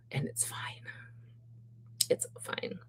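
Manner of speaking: whispered, defeated "it's fine"; resigned whisper. Real, not acted. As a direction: sigh it out, giving up. Sighs, resigned about clothing sizes.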